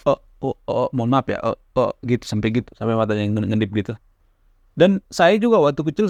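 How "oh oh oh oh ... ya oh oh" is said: mild mock stammer of the uncle; a hint of stuttering uncle; imitating a stutter. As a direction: lightly act out the uncle getting stuck on oh. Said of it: "matanya sampai gini-gini kalau ngomong".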